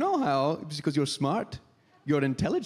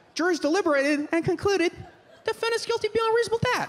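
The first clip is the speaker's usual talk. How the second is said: put-on voice, very high, much higher than usual. Comedian imagines a judge announcing a verdict, in a high voice. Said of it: "[high voice]".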